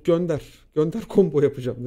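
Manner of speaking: loud retold battle call; cocky challenge. Student daring the teacher to send questions, loud cocky challenge. Retold boast before the test.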